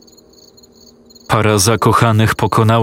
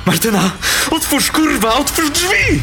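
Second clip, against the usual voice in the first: very high, frantic shriek for help; screaming at her to open the door; panicked scream. A narrator's reading. Boy fleeing the monster begs his girlfriend, terrified screaming.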